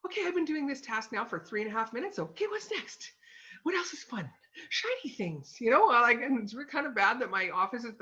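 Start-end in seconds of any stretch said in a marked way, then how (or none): 0.1-5.6 easily bored self. Retold or imitated. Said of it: "It's like".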